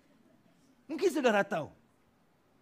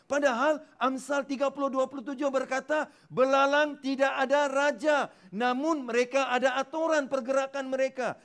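high, loud, slowed shout on "belalang tidak ada raja"; preaching shout; 8 semitones higher, 5 dB louder than usual. Real, not acted. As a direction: proclaim it to the back row. Preaching climax on locusts.

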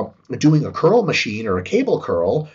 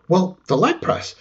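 ordinary talk

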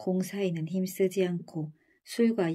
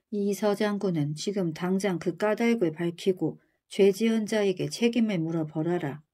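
stern, raised royal order; angry command. Acted. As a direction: order it like a furious king. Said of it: "임금은 성난 목소리로 명령했어요".

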